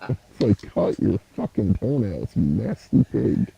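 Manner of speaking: muffled underwater sound; like talking underwater. Real, not acted. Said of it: "you kinda sound like you're underwater".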